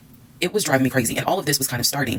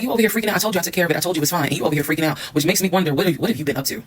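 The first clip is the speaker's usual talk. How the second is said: accusing; 4 semitones higher, faster than usual. Retold or imitated. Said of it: "He was like".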